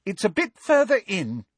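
high, carrying call; calling loudly. Acted. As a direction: call back over the shoulder. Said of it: "calling loudly over her shoulder".

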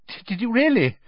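high, stammering question; nervously. A narrator's reading. Mister Weasley answering the suspicious owner, nervously. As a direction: stammer a little, caught out. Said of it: "said Mister Weasley nervously".

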